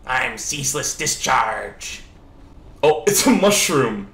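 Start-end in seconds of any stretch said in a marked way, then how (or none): 0.1-2.0 slow, drawn-out mock monster roar; half-hearted boss introduction; Ceaseless Discharge voice. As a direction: growl it lazily like a harmless monster. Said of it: "sitting there going like".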